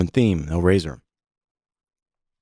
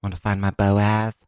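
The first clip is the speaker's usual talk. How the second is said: imitated Christian girls. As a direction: mimic the girls' tone and accent a little, drawing it out. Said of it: "Yeah, just like that".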